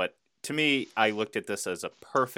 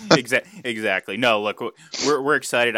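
too much caffeine; 4 semitones higher, 8 dB louder than usual. Real, not acted. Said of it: "I've just had a whole bunch of coffee".

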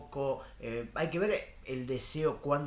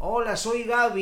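high, loud sing-song caller; new neighbor greeting; 8 semitones higher, 6 dB louder than usual. Acted. New neighbor announcing herself at the door, high calling greeting. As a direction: call out brightly through the door, higher and louder. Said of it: "te golpea la puerta".

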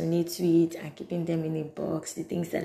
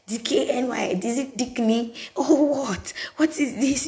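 put-on childlike confusion; 6 semitones higher than usual. Child confused by brand name.

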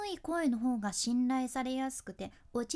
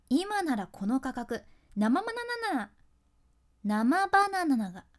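slow ad read, stumbling then calmly restarting; mock sales pitch with flubs; 7 dB louder than usual. Shown as a demonstration. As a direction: trip over the word, then say it again slowly. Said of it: "いきますよ". (噛んでからゆっくり言い直す通販口調)

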